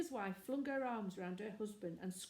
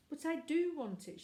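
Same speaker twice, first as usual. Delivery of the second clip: put-on high, louder childish whine; whining insistence; 7 semitones higher, 5 dB louder than usual. A narrator's reading. Little girl insisting to her brother, whining. Jane insists, near tears.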